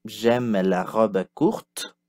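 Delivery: slow, clear repeat for learners; slow teacher repeat. Shown as a demonstration. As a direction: model it slowly again. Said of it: "Répétez".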